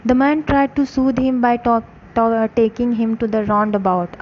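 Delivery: slow, careful read-aloud for a class; story narration. A narrator's reading. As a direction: read each phrase slowly for students. Slow English story reading.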